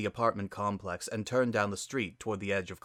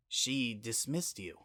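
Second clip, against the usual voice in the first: softer, slowed, hushed surprise; quiet; 6 dB quieter, slower than usual. Acted. Spitfire hearing her sister was dismissed, quiet and slowed. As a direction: let the shock drop her voice. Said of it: "Spitfire said quietly".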